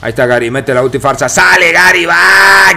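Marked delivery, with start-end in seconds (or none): 1.3-2.8 raised, louder shout on the move; shouted live commentary; excited play call. Real, not acted. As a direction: call out the charge with a sudden burst.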